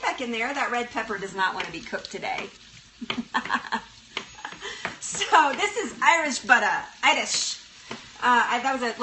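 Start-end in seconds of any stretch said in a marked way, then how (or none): 5.0-7.6 a lightly put-on Irish accent, joking; clumsy mock Irish accent; bad Irish accent. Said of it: "the worst Irish accent ever".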